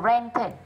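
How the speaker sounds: "rented" with the ending said as "id"; "rented" in two syllables, ending "-tid"; -ed as extra syllable. Shown as a demonstration. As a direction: say "rented" slowly, sounding -ed as a separate "id". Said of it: "phát âm là either".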